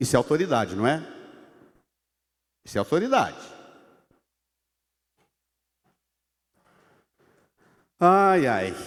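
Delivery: low voice, on the verge of tears. Reading and commenting on a Bible verse: almost crying. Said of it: "eu estou quase chorando aqui".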